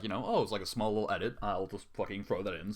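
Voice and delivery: ordinary delivery, nothing marked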